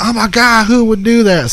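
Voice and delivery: high, shocked mock woman's gasp. Mom reading a text, mock shocked and high. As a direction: squeal it like a scandalized mom. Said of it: "she's like".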